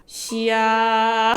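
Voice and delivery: long, drawn-out chest-voice call; full-voice pee call. Shown as a demonstration. Mom demonstrating how their family calls pee. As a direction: stretch the word in full voice. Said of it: "진성으로 합니다".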